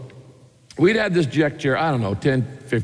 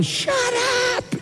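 high-pitched, put-on shriek without real volume; mock scolding yell. Wife to husband singing in the shower, mock scolding yell. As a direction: playfully imitate an exasperated wife's squawk. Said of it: "and Kay's going".

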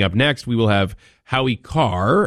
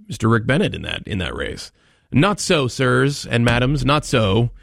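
sarcastic, mock suspense; 5 semitones higher than usual. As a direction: build fake suspense, sarcastically. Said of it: "My sarcasm is deep".

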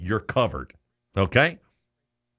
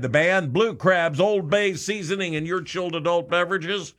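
radio promo read; 3 semitones higher than usual. Acted. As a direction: sell the event on air.

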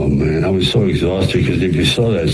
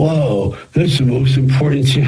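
excited producers; 6 semitones higher than usual. Retold or imitated. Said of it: "the producers come out of the screening room and go".

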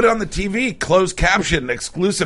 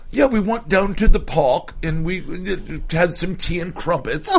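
hammed-up mock British accent, pitched up; 4 semitones higher than usual. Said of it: "I'm gonna hear British".

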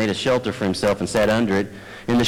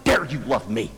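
mock accusation; 2 semitones higher, 4 dB quieter than usual. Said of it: "look at my wife and saying".

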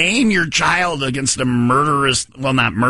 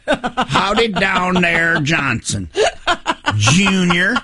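laughing; 4 semitones higher, much slower than usual. Real, not acted. Baby name read laughing.

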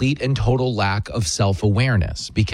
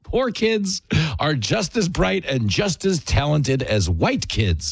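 slow mocking repeat; 4 semitones higher, slower than usual. Repeats the gaffe just played.

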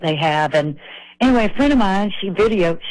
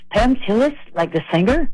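mock Indian accent, starting higher; bad Indian accent; 4 semitones higher than usual. Hotel clerk from India recognizing the singer, in a bad Indian accent. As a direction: attempt a light Indian accent. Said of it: "That's my bad Indian accent".

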